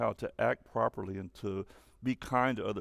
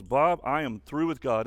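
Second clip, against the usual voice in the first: mildly louder retold outburst; angry; 2 semitones higher, 6 dB louder than usual. Student telling the preacher she is through with God, mildly angry. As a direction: imitate an upset student with restrained anger. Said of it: "she was very angry when she said".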